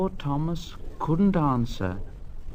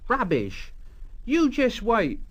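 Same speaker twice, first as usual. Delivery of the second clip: mild annoyed retort; 8 semitones higher than usual. Acted. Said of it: "This annoyed Thomas".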